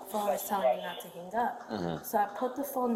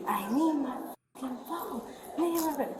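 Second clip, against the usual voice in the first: higher-pitched mock yell; retold yell; 5 semitones higher than usual. Witness retelling the man demanding his phone, mock yelling. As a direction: imitate an angry demand without full volume. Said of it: "That's when he yelled".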